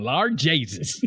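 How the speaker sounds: put-on proud little Newfoundland-accent quote; Mig. Mig so proud of going it, mock Newfoundland accent. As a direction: imitate her Newfoundland accent, pleased with it. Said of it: "she looks so proud of going".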